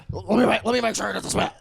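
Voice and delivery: quoting through laughter; giggling out the quote; laughing. Retold or imitated. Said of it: "he's like".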